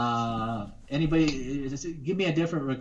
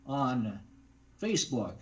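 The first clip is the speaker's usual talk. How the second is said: radio voice. Shown as a demonstration. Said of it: "I could just do my radio voice".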